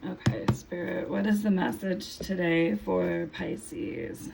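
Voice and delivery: losing her voice, just woke up; hoarse voice. Real, not acted. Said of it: "I'm losing my voice a little bit".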